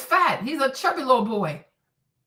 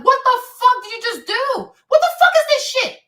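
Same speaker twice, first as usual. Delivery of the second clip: high, loud outburst of disbelief; freaking out; 10 semitones higher, 6 dB louder than usual. Acted. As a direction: act out flipping out in shock, pitch shooting up. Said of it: "going to fucking freak out".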